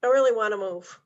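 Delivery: "I really wanna move" with the weight early in the phrase, then falling; stress demo. Shown as a demonstration. Trainer showing agents how emphasis shifts meaning, early stress in "I really wanna move". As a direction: lean on the start of "I really wanna move", let the rest fall away. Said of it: "where they put the emphasis".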